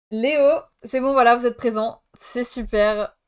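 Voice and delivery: lightly acted teacher calling names; mock roll-call voice, name called out loudly; teacher taking roll. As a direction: tick off the register out loud. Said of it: "Ma prof dit en début de cours".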